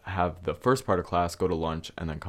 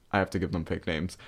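ordinary delivery

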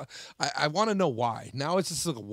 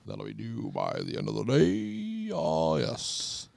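lightly put-on prim teacher; a hint of the old schoolmaster; teacher dismissing the class, lightly mocked; stuffy teacher voice; slower than usual. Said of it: "I swear that's how he talked".

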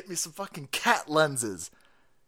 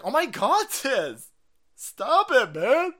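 higher, whiny mock protest; mocking the left; 7 semitones higher, 5 dB louder, slower than usual. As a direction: imitate an upset critic, nagging. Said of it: "the left is all upset".

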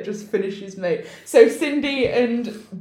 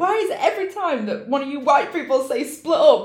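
indignant objection; 4 semitones higher than usual. Retold or imitated. Voices Brenda objecting to splitting up.

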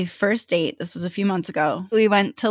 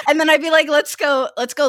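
laughing; 9 semitones higher, faster than usual. Real, not acted. Retelling lost hike, laughing.

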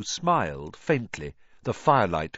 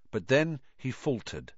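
plain reading voice

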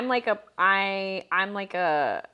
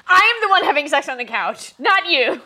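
laughing; 6 semitones higher, 5 dB louder than usual. Real, not acted. Laughing indignant claim.

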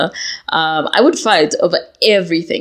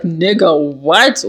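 offended; much slower than usual. Retold or imitated. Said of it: "I was like".

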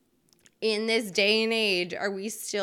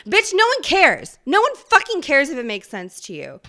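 high, loud exasperated outburst; yelling; 5 semitones higher, 7 dB louder than usual. Real, not acted. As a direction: yell it like you're fed up. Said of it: "Sorry I'm yelling at you".

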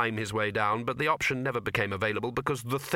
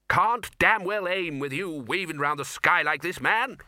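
high-pitched, irascible complaint; exasperated; 6 semitones higher, 4 dB louder than usual. A narrator's reading. Arch-Chancellor aiming a crossbow, high exasperated scolding. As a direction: berate the pilot in a raised pitch.

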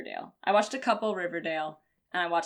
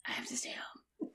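weak, whispery fake-sick voice; 9 dB quieter, slower than usual. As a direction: play sick to stay home, barely voiced. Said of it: "that was a good sick voice".

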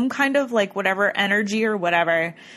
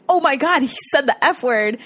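higher, retold scandalized exclamation; mock shock; 5 semitones higher than usual. Investigators react to the swear, mock scandalized. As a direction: exclaim it, imitating their shock.

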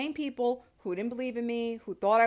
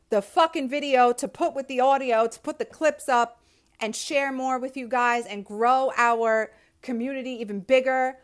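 eager plans; 3 semitones higher, 7 dB louder than usual. Real, not acted. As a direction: sell the dream with energy. Excited future plans.

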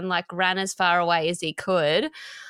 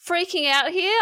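high, frantic retelling of her own panic; panicked; 12 semitones higher, 3 dB louder than usual. Retold or imitated. Mother realising the danger to her kids, high frantic retelling. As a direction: replay the moment she loses it. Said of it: "looking around going".

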